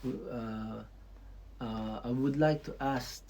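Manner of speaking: soft, careful polite asking; a hint of a courteous local asking permission; lightly voiced polite local, slowing at the end. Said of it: "mas marami dito ang mabait".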